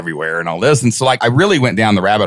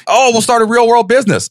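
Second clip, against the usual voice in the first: high, sing-song naive excitement; mock naive enthusiasm; 14 semitones higher, 3 dB louder than usual. Younger self daydreaming about business, high mock excitement. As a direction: play your younger self, dreamy and naive.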